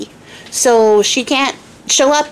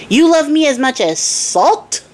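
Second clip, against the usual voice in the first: higher, slower disbelief; indignant king; 5 semitones higher, slower than usual. Acted. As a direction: ask it like an insulted king. King's first indignant question.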